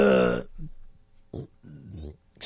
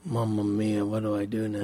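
hammed-up Italian; 9 dB quieter than usual. Sudden comic Italian aside.

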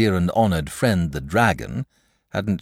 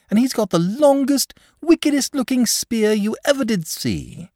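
put-on high, lively boy bursting with news; eager boy; 7 semitones higher, 4 dB louder than usual. A narrator's reading. Boy gleefully tells the dragon that Saint George has come. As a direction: rattle off the news, thrilled.

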